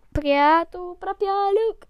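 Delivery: high, slow tagline for the ad; sing-song the commercial slogan. Retold or imitated. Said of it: "el comercial de Juliana".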